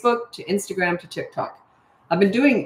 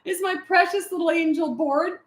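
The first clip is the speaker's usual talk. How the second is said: mock-sweet mother; 12 semitones higher than usual. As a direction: coo it with sarcastic sweetness. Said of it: "exactly what my mother would have done".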